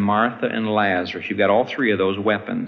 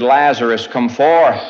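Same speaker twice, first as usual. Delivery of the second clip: louder, commanding call; victorious cry; 6 dB louder than usual. Retold or imitated. Jesus calling Lazarus from the tomb, loud victorious cry. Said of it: "crying out in the voice of a victor".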